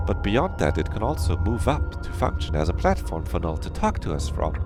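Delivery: measured explaining with swooping pitch; lightly voiced game character. Game character explaining the elevator, lightly voiced. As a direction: lay it out point by point in a lilting voice. Reads a character's dialogue aloud.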